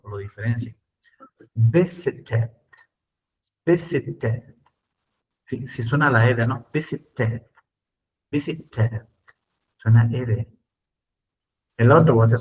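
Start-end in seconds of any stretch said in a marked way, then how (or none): 1.5-9.1 "visited" with the ED fully sounded; British pronunciation. Shown as a demonstration. Teacher models British "visited" for the class. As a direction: sound out every syllable of "visited". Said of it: "lo voy a hacer en inglés británico".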